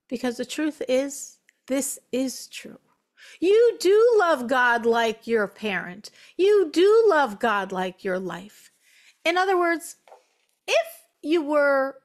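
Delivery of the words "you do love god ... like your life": "You do love" drawn out and louder; emphatic reassurance. Real, not acted. Teacher answering a listener who doubts their love, emphatic stress on "do". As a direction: lean hard and slowly on "do", then ease down.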